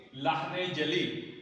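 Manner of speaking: لحن جلی said very slowly and distinctly; slow term. Shown as a demonstration. Teacher introducing the first kind of error, slowly. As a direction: spell out لحن جلی word by word. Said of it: "ایک".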